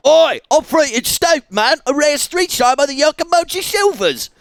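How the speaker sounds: high, loud punk shout; rockabilly gangster. Pretend. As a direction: bellow like a rockabilly hooligan. Voicing rockabilly gang character.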